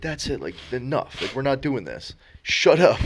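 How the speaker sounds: imitating an umpire losing patience; fed-up umpire. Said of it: "And the umpire, like, takes off his mask".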